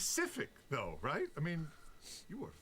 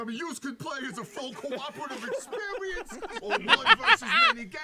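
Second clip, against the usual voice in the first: put-on New York accent; 6 dB louder than usual. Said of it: "are they, like, New York or Jersey".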